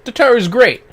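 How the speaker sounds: loud, high cheer; gleeful loud fan cheer; excited cheer. Real, not acted. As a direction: shout it out with glee. Streamer cheering for a character.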